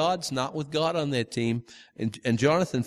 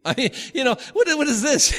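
higher and louder, laughing through the words; laughing disbelief; 10 semitones higher, 4 dB louder than usual. Real, not acted. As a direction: laugh at how absurd the plan sounds. Laughing at the odd conditions.

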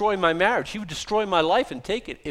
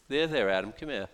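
gentle reassurance; 6 semitones lower, 6 dB quieter than usual. Acted. Jesus comforting the frightened preacher.

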